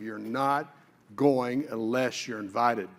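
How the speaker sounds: slow, low, deliberate retold command; distinctive divine instruction. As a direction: space the words out as a clear directive. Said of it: "It was distinctive".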